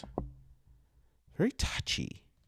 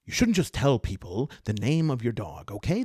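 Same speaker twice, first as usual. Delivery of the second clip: lightly voiced elf, close to usual voice; touchy elf, barely disguised; 3 dB louder than usual. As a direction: scold with only a hint of character voice. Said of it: "It's just not different enough".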